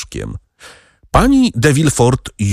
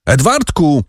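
higher, panicked calls for his son; frantic calling; 6 semitones higher than usual. A narrator's reading. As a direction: cry out for the boy in terror. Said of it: "krzycząc". (przerażone, wysokie wołanie syna)

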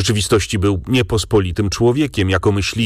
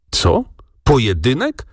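sharp, higher startled exclamation; a mild narrated shout of disbelief, pitched up; astonished cry; 5 semitones higher than usual. A narrator's reading. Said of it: "krzyknął z błyszczącymi oczyma". (okrzyk zdumienia, wyżej)

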